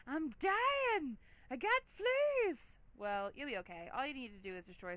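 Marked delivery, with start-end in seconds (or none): 0.1-2.8 high, loud, wailing whine; dog voice. Retold or imitated. The dog whining to its owner about having fleas, in a high loud wail. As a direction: squeal it out like a dying dog. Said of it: "this poor dog is like".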